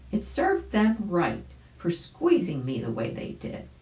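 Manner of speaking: grateful dog. Acted. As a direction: thank your rescuer cheerfully. Dog character speaks.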